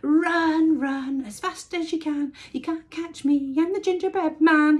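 loud, high taunting bellow. A narrator's reading. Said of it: "he bellowed".

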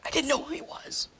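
soft, deflated repeat; small, quiet admission; subdued defence. Acted. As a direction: say it quietly, losing the fight.

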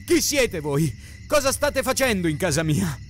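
domanda rabbiosa, tono alzato; furiosa. A narrator's reading. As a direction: pretendere risposte con rabbia. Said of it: "grugnì Ariel furiosa mentre". (voce furiosa e incalzante)

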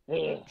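short loud groan of disgust. Retold or imitated. Fan reacting to Drew saying something stupid, disgusted groan.

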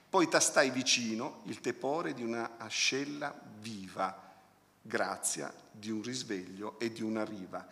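measured verse with a pause before the last phrase; poem reading. Acted. Critic quoting the end of the poem, measured recitation. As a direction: recite the verse, easing down at the close. Reads the poem's closing lines.

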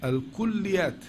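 الكليات read with doubled lam and a short, light ya; teacher models الكليات with light ya; correct light-ya reading. Shown as a demonstration. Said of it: "تقرأ كده".

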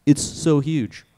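slow, slightly tipsy emphasis. Real, not acted. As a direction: stretch it out a bit tipsy. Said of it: "I'm a little tipsy".

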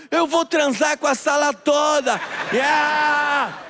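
put-on a triumphant child's whoop; gleeful child shout. Niece running through house shouting. (grito alegre de criança correndo pela casa)

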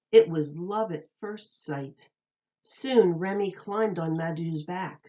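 bright, lilting read-aloud voice; storybook reading voice; reading to children. Acted. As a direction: read it like a picture book to little kids. Reads picture book to children.

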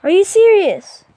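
disbelief. Real, not acted. Game outcome outrages player.

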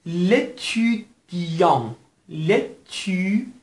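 لتودیان very slowly, syllable by syllable, ending nasal; nasal final vowel. Shown as a demonstration. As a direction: stretch لتودیان out, closing on a nasal O. (لتودیان، خیلی کشیده با آخر تودماغی)

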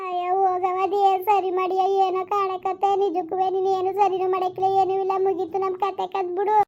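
lightly voiced tearful daughter; despairing daughter.

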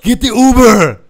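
very loud, slow, high order; exasperated shouting. Retold or imitated. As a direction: bellow it at a drunk who won't listen. Retelling shouted order to drunk man.

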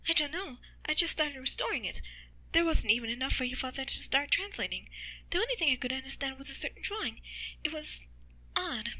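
lightly voiced mother, recalling uncertainly; puzzled mother. Mother answers in narrated story.

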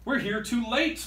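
disappointed pirates; pirates gasp. Acted. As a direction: gasp at the bad news. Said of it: "the pirates gasp".

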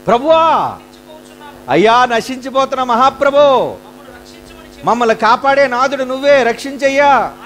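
high, loud imploring cry; desperate pleading. Retold or imitated. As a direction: beg the Lord to save them. Disciples imploring Jesus.

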